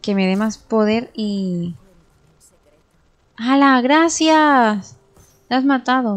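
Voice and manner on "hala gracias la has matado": louder, higher exclamation; excited outburst. Real, not acted. Player thanks a teammate for the kill, excited. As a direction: burst out in delighted surprise.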